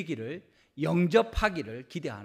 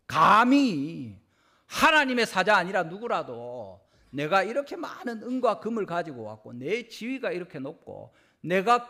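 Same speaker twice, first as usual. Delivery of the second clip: arrogant outrage; 4 semitones higher, 4 dB louder than usual. Retold or imitated. Naaman boasting his rank at the prophet, loud and arrogant. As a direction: puff yourself up and threaten. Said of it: "이렇게 하는 거죠".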